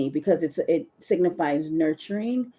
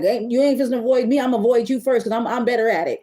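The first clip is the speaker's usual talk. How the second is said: petty; 5 semitones higher, 4 dB louder than usual. Retold or imitated. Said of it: "it's almost like petty".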